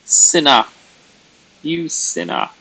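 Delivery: loud, theatrical "Sinner"; hammed-up villain scold; mock accusing. Teasing a viewer, mock Castlevania villain scold.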